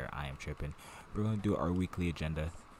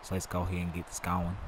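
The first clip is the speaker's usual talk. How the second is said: put-on country accent. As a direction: lay on a little country accent. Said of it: "Got my little country accent going".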